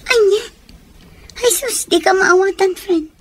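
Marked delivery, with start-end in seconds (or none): 0.0-1.9 sharp high surprised question; startled. Acted. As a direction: jump at the news. Shocked friend reacts to news.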